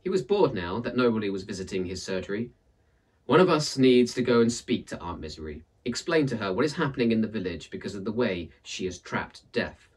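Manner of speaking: lively storyteller reading a folktale; story narration. A narrator's reading. Narrator reading a folktale aloud, lively storytelling. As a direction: tell it like a read-aloud tale for listeners.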